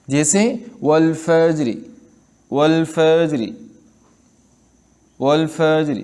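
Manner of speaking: والفجر with the last vowel half voiced; rawm on the final letter. Shown as a demonstration. Teacher demonstrating rawm on والفجر. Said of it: "اس کو آدھا پڑھتے ہیں".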